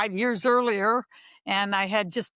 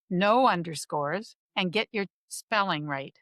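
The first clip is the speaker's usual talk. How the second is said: teacher voice. Acted. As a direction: instruct the class like a teacher. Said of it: "go ahead with my teacher voice".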